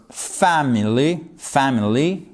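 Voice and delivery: family said slowly, accent on "fa"; stressed syllable shown. Shown as a demonstration. Teacher showing the accent, family stressed on "fa". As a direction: lean on the "fa" of family. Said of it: "on accentue ici".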